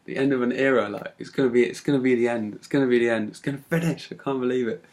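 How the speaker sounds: pumped-up self-talk, repeating for emphasis; retold rush of excitement; hyped up. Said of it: "I was so hyped".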